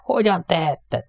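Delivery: high, drawn-out reproach; anguished yell. A narrator's reading. Airman reproaches the crewmate who threw his medal, yelling. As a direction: cry it out slowly, pitch way up. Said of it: "ordított Jackre".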